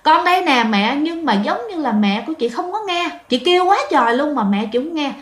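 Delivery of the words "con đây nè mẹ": higher-pitched mild call to mum; retold calling out. Lost daughter answering her mother, mild retold call. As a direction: imitate calling back without really shouting. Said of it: "cái chị mới kêu".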